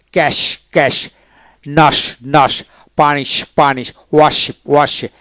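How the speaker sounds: ফিশ with a full "sh" at the end; palatal SH. Shown as a demonstration. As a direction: say ক্যাশ ending in "sh", not "s". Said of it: "এইভাবে পড়বেন".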